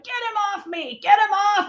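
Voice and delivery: high, panicked cry for help; begging the onlookers, terrified; retold desperate plea. Pinned on the floor, begging them to pull him off, panicked. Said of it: "And I was screaming".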